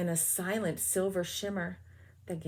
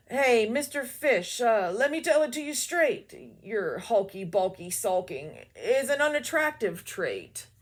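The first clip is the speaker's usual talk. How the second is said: blunt octopus; 3 semitones higher, 4 dB louder than usual. Acted. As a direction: give it to him straight like a big octopus. Octopus voiced.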